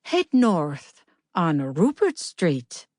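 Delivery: slow, soothing Irish sat-nav voice; a gentle Irish GPS guiding her, slowly; soothing Irish accent. Acted. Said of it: "spoke to her in a soothing Irish accent".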